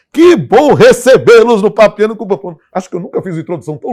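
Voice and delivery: high, loud, thrilled welcome; excited welcome. Real, not acted. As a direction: shout the welcome with joy. Host's big welcome to guests.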